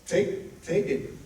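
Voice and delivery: hushed urging. Retold or imitated. Advising friend to take money.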